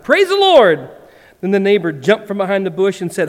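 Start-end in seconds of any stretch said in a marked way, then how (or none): 0.0-0.9 high, loud cry of praise; joyful shout. Acted. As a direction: shout it to the sky. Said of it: "she shouted, shouted".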